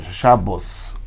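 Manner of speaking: Shabos said with O and a final S; Shabos, an Ashkenazi O and S; Ashkenazi reading. Shown as a demonstration. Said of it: "O certo é ler Shabos". (Shabos dito com O e S final)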